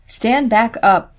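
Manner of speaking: firm, slow command; a farm girl's stern, slow order. A narrator's reading. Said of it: "Betsy ordered".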